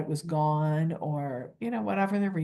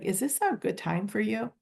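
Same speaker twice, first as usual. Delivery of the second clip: humble, higher question; a humble pitched-up check-in; humble asking; 5 semitones higher than usual. Shown as a demonstration. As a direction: ask gently, like a favor. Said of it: "I would do it in a very humble way".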